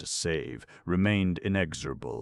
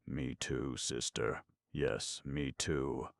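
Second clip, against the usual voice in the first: weak small voices; 3 semitones lower, 7 dB quieter, slower than usual. A narrator's reading. Small children answering weakly.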